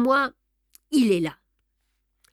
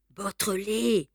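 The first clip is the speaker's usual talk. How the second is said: stammered; 4 dB quieter, slower than usual. A narrator's reading. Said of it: "balbutia monsieur Filleul".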